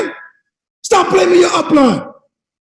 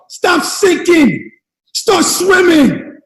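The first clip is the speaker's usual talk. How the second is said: drawn out and punched, word by word; preacher pounding the slogan at his listeners; slow emphatic slogan; much slower than usual. Acted. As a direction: hammer each word home. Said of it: "slogan chant".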